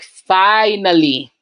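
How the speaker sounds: slow, drawn-out "Finally." said with relief; relieved finally. Retold or imitated. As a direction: let out a long, relieved "Finally.". Relieved family reaction.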